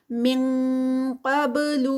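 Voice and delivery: من قبل with an ng sound before heavy قاف; ikhfa demo. Shown as a demonstration. Teacher demonstrating ikhfa with ng sound. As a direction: glide the نون into an ng before قاف. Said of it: "sound آئے گی قاف کی".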